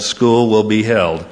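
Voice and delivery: slow, emphatic retold ruling; firm verdict. College president answering the student caller, mock-firm verdict. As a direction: lay down the decision word by word.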